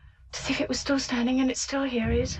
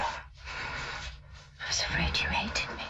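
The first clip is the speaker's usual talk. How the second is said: slow, low and softer whisper; fearful whisper; 5 semitones lower, 5 dB quieter, much slower than usual. Acted. Nina confessing her fear to Treplev, slow and whispered. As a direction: confess it with dread.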